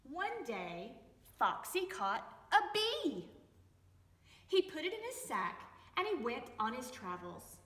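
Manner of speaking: lively read-aloud with voices for each animal and person; story reading for children. A narrator's reading. Teacher reading a picture book to young children, lively storytelling. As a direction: read it to little ones, bright and playful.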